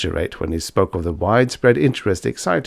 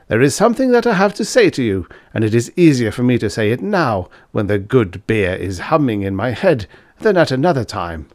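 Fritz, higher and louder, rushing a little, beer-bold; tipsy young student; 3 semitones higher, 3 dB louder than usual. Acted. Half-drunk student confiding to his old master, eager and loud. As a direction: blurt it out while the beer gives courage.

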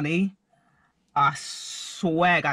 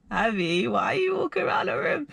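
puzzled ex shouting; 6 semitones higher than usual. Retold or imitated. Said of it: "my ex was sitting there like".

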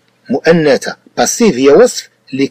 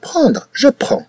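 prendre and je prends said high and clearly, like a model; teacher showing the verb prendre; citing the verb; 12 semitones higher, 4 dB quieter, faster than usual. Shown as a demonstration. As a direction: lift the voice to present the French forms. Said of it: "سي لو فيرب بروندر".

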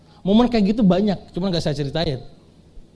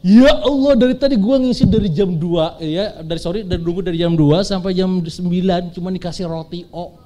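mock protest. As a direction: open with an exasperated cry, then grumble it out. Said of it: "Ah, sudah protes". (protes kesal yang dilebih-lebihkan)

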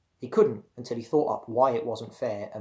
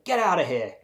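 louder, higher angry order; snapping; 6 semitones higher, 5 dB louder than usual. A narrator's reading. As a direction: snap at an intruding sibling. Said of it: "he snapped at her".

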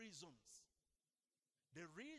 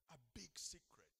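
whispered aside, voice dropped to breath. Acted. Preacher whispers a secret to the congregation. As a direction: lean in and whisper "a big secret".

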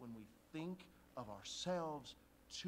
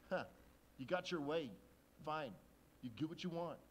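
grudging; 6 dB louder than usual. Shown as a demonstration. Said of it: "I think it was more like".

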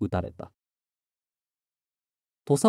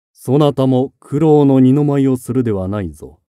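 stern warning; 6 dB louder than usual. Acted. Lord warns younger brother.

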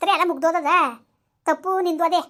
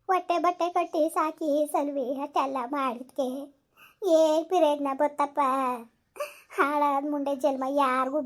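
tearful lament. Acted. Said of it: "ಸುಮ್ನಿರು, ಅಳ್ಬೇಡ".

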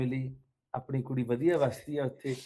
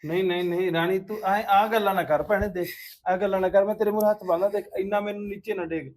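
higher, insistent begging; urgent pleading; 3 semitones higher, 4 dB louder than usual. Acted. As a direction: plead with her to stop accusing you. Begs her to stop accusing him. (ਤਰਲੇ ਪਾਉਂਦਿਆਂ ਮਿੰਨਤ)

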